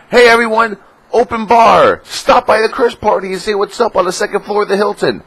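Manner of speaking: high, loud hyped-up promo voice; party announcement. Retold or imitated. Website inviting everyone to the open-bar party, loud hyped promo.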